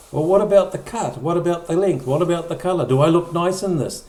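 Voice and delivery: lightly voiced wife pressing for details; woman fishing for reassurance. Voicing a woman's worried questions.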